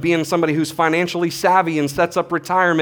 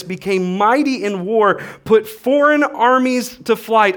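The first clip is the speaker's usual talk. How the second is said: rousing scripture read; 5 semitones higher, slower than usual. Acted. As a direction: declare each feat like a victory, climbing to the last line. Reading the hero list out.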